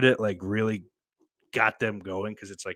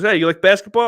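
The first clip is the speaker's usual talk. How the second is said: mock comedian's question; 11 semitones higher, 11 dB louder, faster than usual. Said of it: "He goes".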